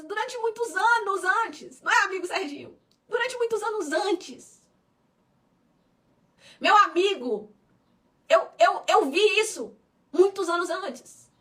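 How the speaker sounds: slow emphasis on "muitos anos antes"; emphatic, slow. Real, not acted. Pastor telling her friend how long she waited, emphatic.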